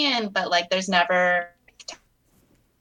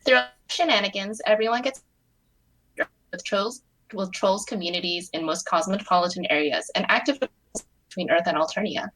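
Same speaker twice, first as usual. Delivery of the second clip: steady, even read-aloud narration; story narration. A narrator's reading. Reading her own fic aloud to friends, calm narration.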